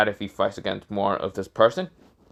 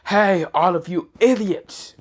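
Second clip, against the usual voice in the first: half-shouted taunt, pitched up; mock scream; 7 semitones higher, 3 dB louder than usual. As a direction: call out to a whole crowd below, high but not full volume. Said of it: "He just screams out".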